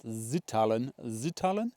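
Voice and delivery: light mock German accent, S turned to a buzzing Z. Vlogger naming the fell for viewers, in a light German accent. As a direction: say the name with a playful touch of German accent. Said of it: "I said that in a German accent".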